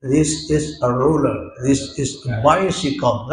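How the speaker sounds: put-on This is a ruler in a light English accent. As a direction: classroom drill in an English accent. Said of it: "kayak orang Inggris". (logat Inggris ringan)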